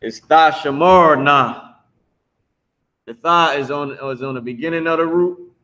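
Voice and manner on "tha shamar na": "tha shamar na" said firmly, each part clear; pronunciation demo. Shown as a demonstration. Teacher correcting student who thought tha was separate, clear "tha shamar na". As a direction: model "tha shamar na" as one word, clearly. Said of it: "that's all one word".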